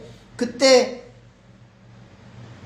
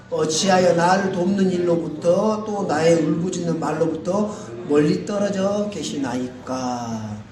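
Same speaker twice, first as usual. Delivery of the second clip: slow, measured congregational Bible reading; scripture read aloud together; 4 semitones lower, slower than usual. Real, not acted. Preacher leads the congregation through the psalm verse, reading aloud. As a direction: read the verse out in drawn-out phrases. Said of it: "다 같이 한번 읽어보겠습니다".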